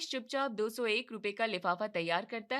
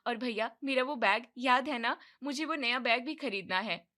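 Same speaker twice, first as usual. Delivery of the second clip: eager sister; 3 dB louder than usual. Acted. Sister pleading with brother for fees and bag, eager. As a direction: coax the brother like a keen little sister. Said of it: "तभी नंदिनी कहती है".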